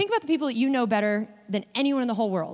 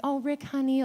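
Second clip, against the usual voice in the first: higher, lightly sweet affectionate call; sweet pet name; 3 semitones higher than usual. Retold or imitated. Stranger imagining a long-married wife's endearment, sweet. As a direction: say it like a fond wife of many years. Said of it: "something really sweet and nice".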